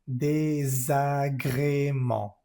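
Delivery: désagrément with a nasal final vowel, no n sounded; nasal ending. Shown as a demonstration. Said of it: "se pronuncia désagrément".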